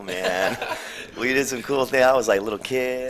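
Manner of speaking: high, loud laughing recollection; laughing excitedly. Real, not acted. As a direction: gush through laughter. Laughing about fond past.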